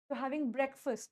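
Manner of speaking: You're having breakfast, said very slowly and clearly; slow model sentence. Shown as a demonstration. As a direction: spell the sentence out slowly for learners. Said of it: "बोल के देखो". (धीमे और साफ़ बोला वाक्य)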